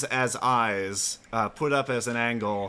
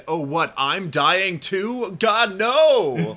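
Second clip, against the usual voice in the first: mock panic; 6 semitones higher, 5 dB louder, much slower than usual. Lamp voiced realizing it's dying.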